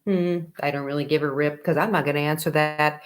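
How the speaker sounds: mock indifferent teen. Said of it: "sitting there like".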